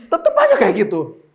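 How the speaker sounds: loud remark through laughter; laughing. Real, not acted. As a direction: crack up while saying it. Laughing at own fight demonstration. (sambil tertawa keras)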